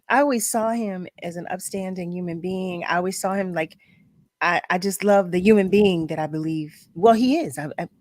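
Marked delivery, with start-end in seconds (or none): none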